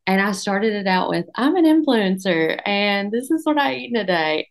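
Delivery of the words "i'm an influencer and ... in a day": mock influencer. Mocking influencers she posts about, in a hammed-up influencer voice. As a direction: send up the influencer video intro. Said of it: "kinda making fun of those posts".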